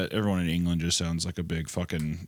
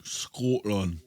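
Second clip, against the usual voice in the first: mimicked Scottish "Scotland"; Scottish accent; 3 semitones higher than usual. Shown as a demonstration. Echoing a friend's demo, put-on Scottish accent. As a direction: copy the Scottish vowel.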